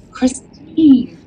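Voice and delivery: lifting a cashier's name up joyfully; fervent call. Retold or imitated. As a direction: call her name with feeling. Addressing cashier with fervor.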